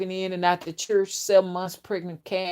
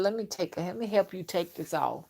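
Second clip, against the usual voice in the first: softer, mock seductive murmur; low voice; 7 dB quieter than usual. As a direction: lower the voice to lure her in. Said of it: "this how he says it".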